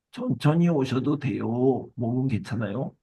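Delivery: lightly acted kind concern, unhurried; warm reassurance. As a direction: gently take your time, like an understanding customer. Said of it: "이렇게 따뜻하게 말했어요".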